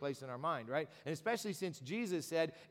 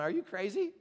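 raised, louder disbelief; incredulous outburst; 4 semitones higher, 6 dB louder than usual. Acted. Healed man protests to the religious leaders, loud and incredulous. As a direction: blurt it out, amazed anyone would object. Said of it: "the guy's looking at him going".

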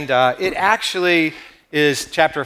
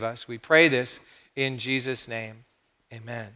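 prayer. Real, not acted. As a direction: pray aloud, settling gradually into a hushed close. Leads the congregation in prayer.

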